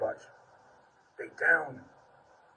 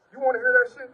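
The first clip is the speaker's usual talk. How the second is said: exclaimed challenge; 8 semitones higher, 5 dB louder, faster than usual. Real, not acted. Rhetorical challenge to congregation.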